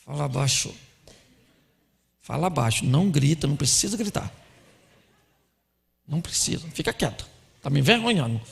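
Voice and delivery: low, soft, restrained reprimand; hushed scolding. Acted. Husband hushing his nervous wife in public, low and tense. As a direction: shush her under your breath, embarrassed. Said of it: "o seu marido fala assim".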